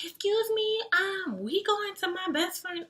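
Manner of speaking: imitating the friend's very high interruption; high-pitched voice. Friend interrupts the chat with army guy, imitated high-pitched voice. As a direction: cut in with a mimicked high voice. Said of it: "high-pitched voice".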